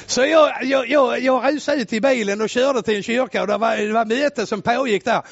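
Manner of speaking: ordinary delivery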